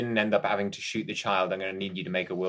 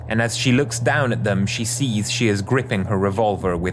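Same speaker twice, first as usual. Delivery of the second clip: story narration; 4 dB louder than usual. Acted. Closing narration over music.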